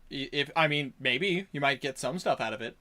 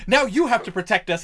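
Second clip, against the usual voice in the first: higher, louder plea; pleading townsfolk; 6 semitones higher, 8 dB louder than usual. Acted. Townsfolk demanding the goblin protect them, higher and louder. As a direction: beg him to protect the town. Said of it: "the people are like".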